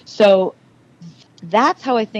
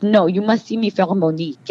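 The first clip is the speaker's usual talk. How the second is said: lightly put-on French accent. Actress insisting on auditioning for Monique, French accent. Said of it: "improvise in the French".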